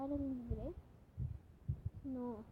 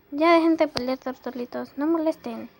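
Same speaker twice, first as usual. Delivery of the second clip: loud scolding; 2 semitones higher, 8 dB louder than usual. Acted. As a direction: break up the fight with a loud call. Friend scolds quarreling couple.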